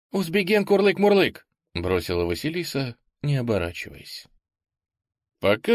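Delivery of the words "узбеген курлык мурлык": high, loud playful coo; cooing pigeon voice. A narrator's reading. Nonsense cooing farewell words. (курлыкающий голос голубя)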